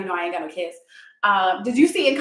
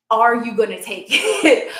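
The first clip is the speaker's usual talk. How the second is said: slow, louder, laughing through the question; laughing tease; 6 dB louder than usual. Real, not acted. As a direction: dare them with a laugh. Teasing challenge to the viewer.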